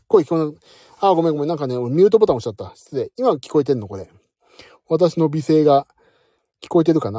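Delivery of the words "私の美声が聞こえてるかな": mock beautiful voice.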